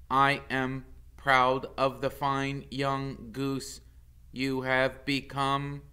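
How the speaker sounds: a touch of a measured robot voice; lightly voiced robot mother. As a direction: speak evenly like a kind robot. Roz praises son.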